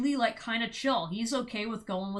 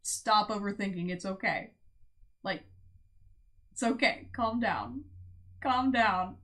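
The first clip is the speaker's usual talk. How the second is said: slightly lowered voice with spaced pauses; calming. Acted. Future partner talking a worrier down, understated calming. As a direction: mildly soothe someone who is overthinking. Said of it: "mostly gonna be just calming you down".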